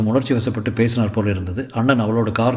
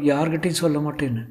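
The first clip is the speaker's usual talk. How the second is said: high, lowered-volume character voice; Sulekha; 4 semitones higher, 4 dB quieter than usual. Acted. Actress dictating a secrecy oath, high character voice. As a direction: keep it high and gentle.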